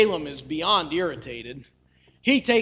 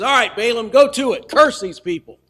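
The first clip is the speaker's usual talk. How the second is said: bossy king; 4 semitones higher, 6 dB louder than usual. Retold or imitated. King urges Balaam to curse.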